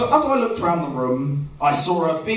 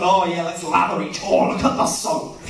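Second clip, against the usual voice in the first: mock sexy film voice; 3 semitones lower than usual. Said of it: "they make shower scenes seem sexy".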